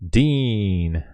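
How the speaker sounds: drawn-out one-word greeting; Wolf of Wall Street welcome. Acted. Streamer greets a new subscriber, drawn-out Wolf of Wall Street welcome. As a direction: stretch the name out as a welcome. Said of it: "that was the welcoming".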